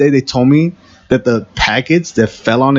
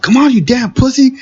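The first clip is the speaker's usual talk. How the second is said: much higher, barked taunt from a big supervisor; mock taunt; 13 semitones higher than usual. Supervisor taunting worker lifting drum, high mock bark. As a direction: jeer at him like a bullying boss. Boss mocking weak worker.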